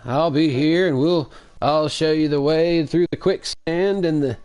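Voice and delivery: put-on high, loud old prospector voice. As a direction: yell it like a crusty old gold miner. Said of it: "he played an old prospector".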